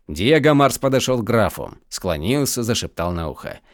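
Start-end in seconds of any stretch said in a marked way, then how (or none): none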